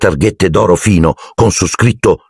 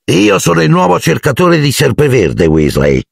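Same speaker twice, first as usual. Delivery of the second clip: put-on higher, smug boy's voice; 8 semitones higher than usual. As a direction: gloat at Ron. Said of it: "con aria compiaciuta". (Malfoy compiaciuto, voce più acuta)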